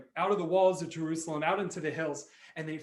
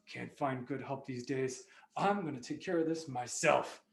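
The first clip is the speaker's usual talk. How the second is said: weary grumbling; 4 semitones lower, 5 dB quieter than usual. Acted. King giving up on his guards, weary grumble. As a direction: sigh it out, fed up with the help.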